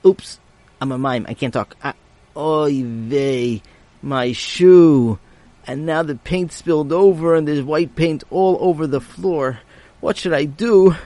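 dismayed boy, lightly voiced; yiddish accent. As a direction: panicky little oy vey. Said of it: "Sammy said to himself".

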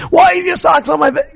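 high shouted scolding; irritated parent. Retold or imitated. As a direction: yell at the kid about the socks. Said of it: "A million things could happen".

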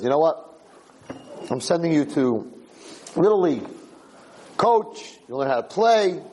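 mildly hyped-up proud dad; excited father. Acted. Father sending his son to Little League, excited. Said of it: "He's all excited as a son".

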